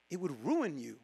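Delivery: "ruin" falling low and soft, voice sinking away; quiet drop. Shown as a demonstration. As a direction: let "it would ruin you" fall low and soft. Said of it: "If God literally gave you".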